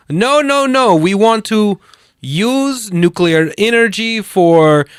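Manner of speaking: high, slow, mock dictator reassurance; hammed-up Iranian dictator promising peace. Host mimics the movie dictator's speech, high and slow. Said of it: "he's standing up there going".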